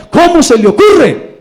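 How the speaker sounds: high, loud indignant cry; outraged shout. Retold or imitated. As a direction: shout it, scandalised by the very idea. Man outraged at the president's request. (grito indignado, agudo y fuerte)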